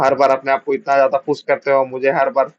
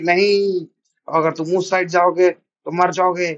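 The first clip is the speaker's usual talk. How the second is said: a high cry of no, then a slow plea; desperate plea; 4 semitones higher, slower than usual. Acted. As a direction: beg him not to go to his death. Hero begs friend not go. (दोस्त को रोकते हुए धीमी, घबराई विनती)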